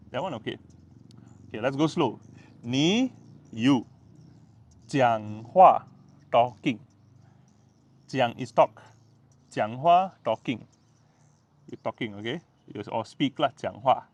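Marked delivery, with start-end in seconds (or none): none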